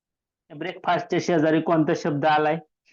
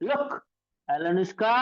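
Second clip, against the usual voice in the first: mock calling out; 3 semitones higher, 3 dB quieter, much slower than usual. Teacher demonstrates the child crying out to Alunushka, mild calling. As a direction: stretch the name's last vowel like a child calling. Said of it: "एक लेकरू असं मोठ्यानं ओरडलं".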